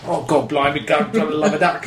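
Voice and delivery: mock Cockney. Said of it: "interprets what all the Cockneys are saying".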